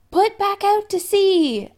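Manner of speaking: high, loud, slow yell. A narrator's reading. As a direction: bellow the order to the crew. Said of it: "Adam yelled".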